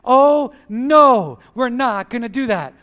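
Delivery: loud no, then brisk dismissal; firm refusal. Pretend. Pastor modeling the attitude of saying no. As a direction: brush the temptation off. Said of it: "That's gotta be our attitude".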